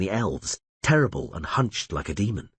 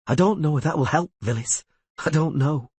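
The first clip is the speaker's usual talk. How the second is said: wry doubt; 8 semitones higher than usual. A narrator's reading. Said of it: "smiled wryly".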